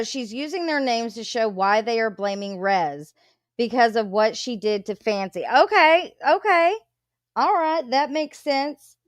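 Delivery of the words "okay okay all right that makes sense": got it, finally clicking; dawning realization. Real, not acted. Reactor realizing something.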